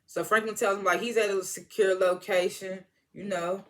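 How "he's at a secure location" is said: best attempt at an LA accent, slowly; lightly put-on LA accent, drawn out. Shown as a demonstration. Recapper quoting Franklin about the location, attempted LA accent. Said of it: "that's my best L A accent".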